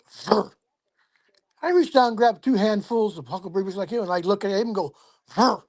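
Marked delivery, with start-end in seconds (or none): 0.1-0.5 short mimicked "frr" sound; imitated Bigfoot toddler noise. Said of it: "shakes it at me and goes". 5.3-5.6 short "frr", a little higher; imitated noise thrown back. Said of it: "right back".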